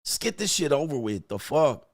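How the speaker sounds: mock exasperated grumbling; lightly acted annoyance; upset wife. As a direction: grumble like a put-upon wife. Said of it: "Just completely upset".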